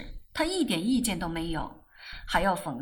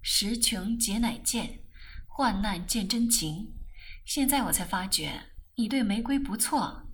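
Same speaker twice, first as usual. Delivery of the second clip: mildly soothing husband; gentle. Acted. Husband gently reassures narrator about Rose, lightly warm. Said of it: "更生温和地说".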